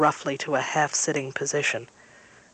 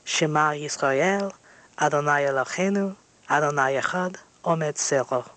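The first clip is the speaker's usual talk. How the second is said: intoned prayer. A narrator's reading. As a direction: recite it as a sacred formula. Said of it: "Together we intone".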